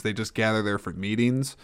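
ordinary talk, nothing marked

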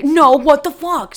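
loud, high outraged outburst; mad. Retold or imitated. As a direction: imitate him flying off the handle. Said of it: "his reaction of getting so mad".

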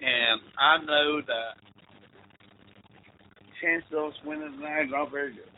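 hushed imitation of a priest praying; solemn hushed prayer. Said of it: "he starts saying the prayer".

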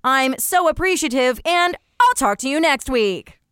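a hint of a TV news reporter. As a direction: read it like an on-air entertainment reporter. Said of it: "general reporter".

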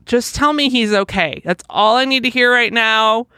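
a touch of frantic begging; retold frantic plea. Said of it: "like, frantic".

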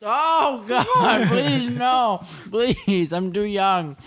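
high, hammed-up begging; mock pleading scream. Ethan's player showing his scream while slapped, high mock pleading. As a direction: beg for mercy in a squeaky high panic. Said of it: "what's the scream sound like, Jeff?".

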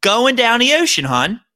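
thick Baltimore accent, lifted then dropping on hun. Shown as a demonstration. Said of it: "You asked for the accent".

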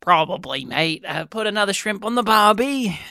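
hammed-up Australian accent; Crocodile Dundee. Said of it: "Crocodile Dundee accent".

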